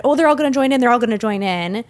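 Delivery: retold burst of eager hope; excited anticipation. Retells own excited exclamation while watching.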